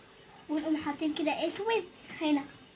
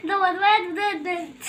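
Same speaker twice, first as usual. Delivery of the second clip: laughing; 2 semitones higher, 6 dB louder than usual. Real, not acted. Laughing at drawn face.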